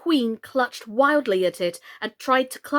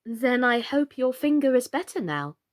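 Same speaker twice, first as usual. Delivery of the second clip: politely. Acted. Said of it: "Alice said very politely".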